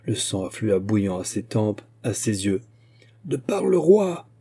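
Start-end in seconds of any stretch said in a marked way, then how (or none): 3.3-4.3 high, slow ringing cry; exclaimed command. A narrator's reading. Musketeer ordering the fugitive to halt, exclaimed command. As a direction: cry it out slowly in the king's name. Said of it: "s'écria-t-il encore".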